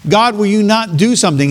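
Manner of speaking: high, urgent pleading question; desperate plea to God. Retold or imitated. Preacher voicing the prophet's cry to God, high and urgent. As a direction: beg God to step in. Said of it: "He says".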